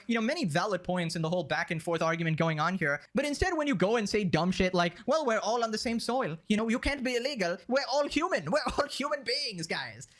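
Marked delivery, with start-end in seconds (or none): 5.1-10.1 sing-song mock idealist, pitched up; mock preachy idealist; mocking naive idealist. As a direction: parody the argument as simple-minded. Mocking the same-soil argument.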